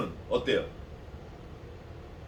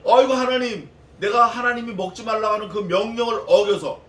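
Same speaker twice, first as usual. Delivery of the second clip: pleading prayer; 5 semitones higher, 5 dB louder than usual. Acted. Adam's voiced prayer, pleading.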